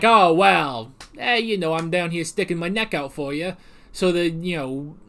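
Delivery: a light thick New York accent, imitating a shady official. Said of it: "giving him a thick New York accent".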